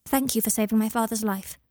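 put-on politely formal child; a touch of earnest formality. A narrator's reading. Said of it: "he said, formally".

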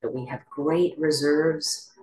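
calm meditation guide with long pauses; guided meditation. Acted. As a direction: guide listeners gently into stillness, leaving space between phrases.

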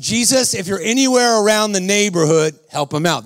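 a lightly hammed-up, offhand prayer; mock deep prayer. Preacher praying for a man who needs it now, mock-solemn prayer. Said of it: "That was my deep prayer".

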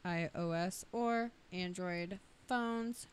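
stiff robotic recital; reciting like a robot. Real, not acted. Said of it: "you sound like a robot".

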